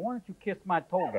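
quiet put-on Italian accent. Joking about how Romans sound in movies, putting on an Italian accent. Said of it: "a Roman who sounds like an Italian go".

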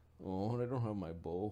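normal talking voice

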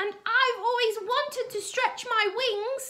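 very high clucking chicken voice. Narrator reads the chicken speaking to Jack and the giant, clucking chicken voice. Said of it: "clucked the chicken".

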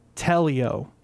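telio with weight on first syllable te. Explaining how the name is pronounced: stress on first syllable te. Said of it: "emphasis on the first syllable".

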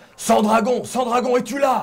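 re-enacted thundering shout. Speaker recounting knocking on doors down a corridor, retelling a thundering shout. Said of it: "d'une voix tonitruante, je hurle".

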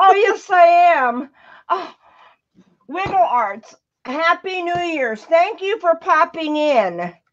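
ecstatic, overjoyed, thrilled, high-pitched. Welcoming someone who just popped in with New Year's greetings, ecstatic. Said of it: "I can tell by the tone of her voice".

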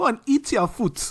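put-on slow, high, drawn-out Nigerian mum accent. Retelling what mum says at mealtimes: imitating mum's African accent. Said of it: "my mum, she goes".

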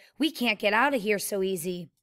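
plain

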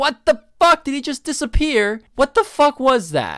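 very high, very loud, shrill, fuming angry yell. A streamer reacts as an enemy skeleton suddenly disappears mid-fight, fuming. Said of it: "I'm actually fuming".

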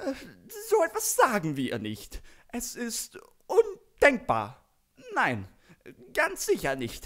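very high, frantic, hectic panicky babbling. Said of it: "Hektisch, panisch, äh, Gebrabbel".

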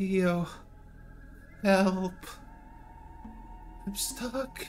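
put-on whispered, mournful, somber elderly woman's voice. Narrating a scene at a grave, voicing the one heard below: somber elderly woman's voice. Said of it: "you hear somber voice of an elderly woman".

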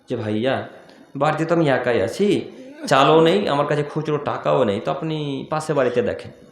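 gentle, soft, low, polite tone.

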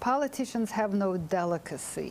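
ordinary delivery

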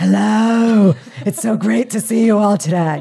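very loud, slow, possessed-sounding exorcist voice. Retelling the presentation given after losing the voice: imitating own exorcist voice. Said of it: "it was the exorcist voice".

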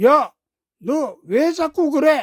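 loud, high-pitched, fed-up, challenging voice. Hyeondo to Sangsu after his painting is ruined, loudly demanding. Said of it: "큰 소리로 따졌습니다".

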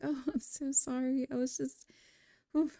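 jittery, fumbling delivery. Retelling a first greeting, she acts out her own reply: acting flustered and nervous. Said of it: "I'm just a little nervous".

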